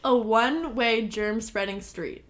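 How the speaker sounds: slow, deliberate enunciation; measured demonstration; careful repeat. Shown as a demonstration. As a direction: say the tongue twister slowly and cleanly. Repeats the tongue twister to show it.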